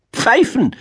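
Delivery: high piping marmot voice; marmot calling out. A narrator's reading. Marmot offers an answer to the owl, high piping call. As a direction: chime in high, like an eager pupil. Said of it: "rief das Murmeltier".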